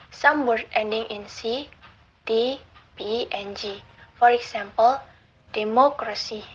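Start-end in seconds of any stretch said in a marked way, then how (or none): 5.5-6.4 "democracy" with the MO syllable stressed. Shown as a demonstration. Lecturer showing antepenultimate stress, "democracy" stressed on MO. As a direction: lean on MO in "democracy", third syllable from the end. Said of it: "The stress mo in democracy".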